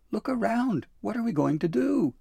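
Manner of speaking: high, loud exasperated cry; snapping. A narrator's reading. Dabbledy to Santa amid the scattered presents, snapping in panic. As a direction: demand an answer, pitched high and loud. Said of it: "she snapped".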